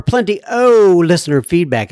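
tip your hat to the Irish with a stretched "o"; Irish-style flourish. Acted. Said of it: "my tip of the hat to all the Irish".

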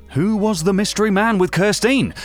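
normal talking voice

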